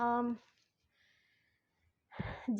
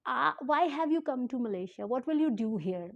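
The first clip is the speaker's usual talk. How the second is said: each word spaced out, very slowly; deliberately slowed-down English question; slow, careful quote; much slower than usual. Shown as a demonstration. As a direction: spell the officer's question out slowly for the viewers. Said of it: "आहिस्ता-आहिस्ता आप लोग को इसलिए बता रही हूँ".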